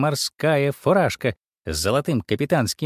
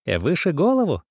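squeak; 5 semitones higher than usual. Acted. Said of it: "пискнула она".

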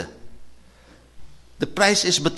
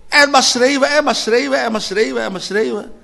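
loud fading repetition; 9 semitones higher, 7 dB louder than usual. Acted. Repeated shouting phrase, fading.

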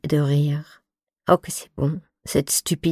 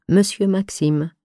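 tenderly; 3 semitones higher than usual. Retold or imitated.

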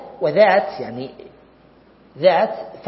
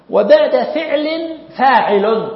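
slow, loud, higher recitation of "وبعد فعل فاعل"; reciting the verse; 6 semitones higher, 7 dB louder, slower than usual. Shown as a demonstration. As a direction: chant the line out loud and slow. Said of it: "ثم قال".

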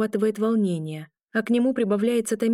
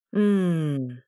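pained groan. A narrator's reading. Injured man moaning as he sits on the bed. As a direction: groan through closed lips. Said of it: "застонал".

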